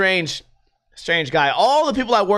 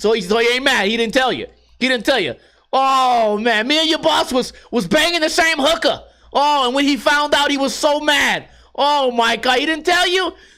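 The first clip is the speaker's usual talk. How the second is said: put-on New Jersey accent, pitched up; 6 semitones higher than usual. Retelling what a man yelled in a liquor store, in a Jersey accent. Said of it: "It's it's kind of like a Jersey accent".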